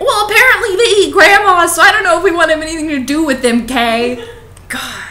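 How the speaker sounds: high, loud giggling joke, rushing to the end; laughing. Real, not acted. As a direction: laugh it out, barely holding it together. Joking about the slut etymology.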